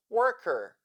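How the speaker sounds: demonstrated American 'worker' with R sounded; American accent. Shown as a demonstration. Teacher repeating the dialect demo, American accent. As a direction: give 'worker' its American r-coloured ending. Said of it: "in the American accent".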